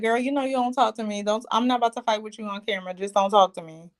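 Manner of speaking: fast, curt shutdown; dismissive brush-off. Retold or imitated. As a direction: rattle it off, done with her. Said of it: "Katina was like".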